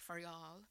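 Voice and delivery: Faryal said the South Asian way; South Asian pronunciation. Shown as a demonstration. Showing co-hosts how she pronounces Faryal, South Asian way. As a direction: say "Faryal" as in her own community. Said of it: "brown way".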